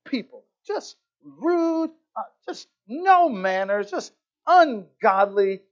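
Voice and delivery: slow, drawn-out disgusted fuming; ticked off. Retold or imitated. Woman stewing about the cookie man, ticked off. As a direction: act out her stewing, word by word. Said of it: "ticked off the whole time".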